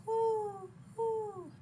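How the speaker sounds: high, long hooting; owl's hoot. Acted. Owl asking about the web, high hooting. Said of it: "asked the owl".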